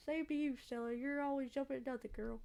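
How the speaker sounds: put-on Southern accent, gently ribbing. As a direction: try a rough-and-ready Southern accent. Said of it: "a southern accent".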